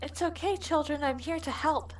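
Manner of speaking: calm the little ones softly; soft reassuring. Acted. Frida soothing the children.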